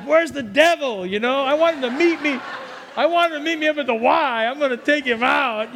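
retold fired-up challenge; pumped-up bravado. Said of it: "Man, I was pumped up".

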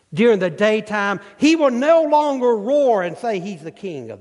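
gloating spider. Acted. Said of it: "And he goes".

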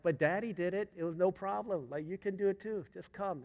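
retold dad talking a child into it; coaxing. Dad coaxing scared daughter.

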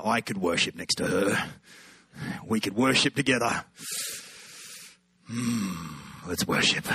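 low, hammed-up smooth romancing; smitten inner voice. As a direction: drop low and savour the idea. Mock-smitten thoughts about the girl.

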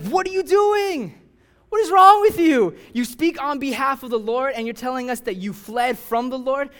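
high, loud, outraged shout; sailors yelling. Acted. Panicked sailors shouting at Jonah in outraged disbelief. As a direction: yell at him in disbelief, dragging out the first question.

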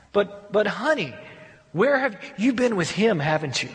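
hurt, accusing husband. Retold or imitated. Husband confronting his straying wife, hurt. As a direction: ask it already knowing the answer. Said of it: "the husband keeps coming and saying".

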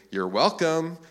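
a pointed, mock-polite jab; snarky. Parent to ungrateful kids with ice cream, snarky. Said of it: "in a snarky voice".

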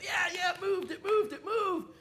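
high, loud chorus of mock yells; excited shouting. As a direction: pile on the fake excitement. Everyone joins the prank.

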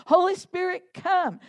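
earnest prayer call. Retold or imitated. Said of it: "I'm gonna keep saying it".

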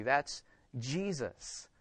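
soft and very slow, reverent; softly savoured refrain; hushed aside. Real, not acted. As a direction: breathe it out in awe.

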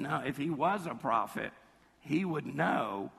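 a touch of smug judgement, slowing at the end; superior, self-righteous. Acted. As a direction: imitate a self-righteous Pharisee, lightly. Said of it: "that superior, that self-righteousness".

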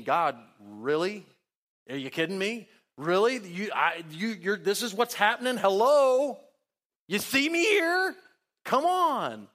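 rising to a high, loud, incredulous plea; exasperated complaint to God. Acted. Preacher voicing his complaint to God.

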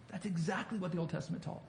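a hushed, rushed restatement. Shown as a demonstration. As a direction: echo it back quietly and quickly. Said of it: "repeats the line".

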